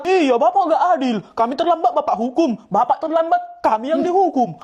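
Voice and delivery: giggling indignation; laughing protest. Acted. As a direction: complain through laughter. Students protest teacher's unfair punishment.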